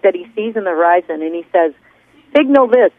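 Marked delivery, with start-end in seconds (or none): 2.3-2.9 raised, higher bark of a ship's captain; barked order. A narrator's reading. Captain barking orders at the signal man, mild bark. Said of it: "barks the captain".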